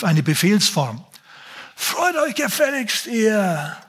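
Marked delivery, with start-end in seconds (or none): 1.8-3.8 barked command, much higher; drill sergeant. Retold or imitated. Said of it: "wie ein Drill Sergeant".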